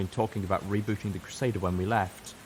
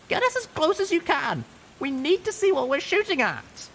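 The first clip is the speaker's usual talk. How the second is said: urgent shout, much higher and louder; shouting orders; 5 dB louder than usual. A narrator's reading. Littlepip shouts orders to Calamity in battle, much higher and louder. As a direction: bark the order over the storm. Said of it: "I shouted".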